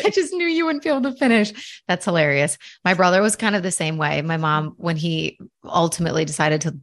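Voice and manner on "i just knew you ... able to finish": laughing mock echo. Echoing the mom, laughing.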